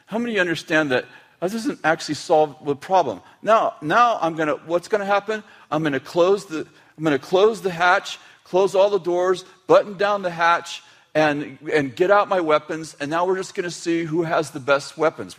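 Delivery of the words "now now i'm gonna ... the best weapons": raised, agitated pitch, imitating someone provoked; acted defensiveness. Person being intimidated stops communicating, acted defensive agitation. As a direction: play someone battening down for a fight.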